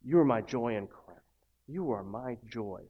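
slow, soft, heartfelt reading of the letter; tender scripture reading. Acted. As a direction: read it like a love letter from prison. Reads Paul's letter tenderly.

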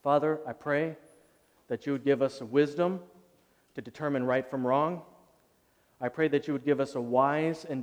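steady prayerful address to God. Acted. Preacher praying over the church at the end, earnest. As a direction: pray for the congregation humbly.

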